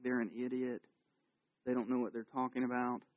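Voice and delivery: soft, hushed, behind the teacher's back; whispered gossip. Retold or imitated. Student whispering about the teacher in class, hushed. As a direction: whisper it so the teacher can't hear. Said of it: "like when you're whispering".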